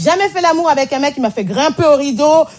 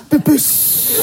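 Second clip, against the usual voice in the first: pet name; 2 semitones higher than usual. Retold or imitated. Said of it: "par t'appeler par ton vieux surnom".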